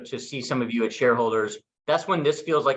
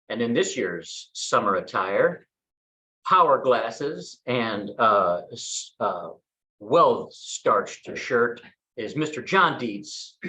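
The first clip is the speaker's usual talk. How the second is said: slow, drawn-out fashion show announcer; mock runway announcer; much slower than usual. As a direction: present him like a model on the catwalk, slowly. MC introducing arrivals like runway.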